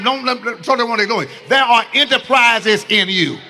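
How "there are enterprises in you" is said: louder, urgent declaration to a neighbor; preacher pushing the crowd to tell a neighbor, loudly; emphatic, louder. Shown as a demonstration. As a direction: grab them and tell them like it matters. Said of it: "No, no, grab 'em".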